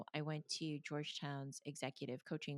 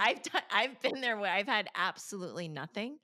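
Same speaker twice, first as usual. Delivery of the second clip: still laughing; 5 semitones higher, 9 dB louder than usual. Real, not acted. Still laughing, recalling being poor.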